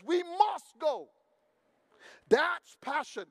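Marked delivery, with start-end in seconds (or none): 0.0-1.1 slow, higher insistent We must go; a resolute leader quoted slowly; firm Caleb. Retold or imitated. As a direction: Caleb plants his feet and insists. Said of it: "Caleb says".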